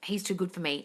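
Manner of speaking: soft, subdued self-doubt; understated insecure inner thought; fearful thought. Shown as a demonstration. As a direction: say it small and quiet, doubting yourself. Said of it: "What were the fearful thoughts".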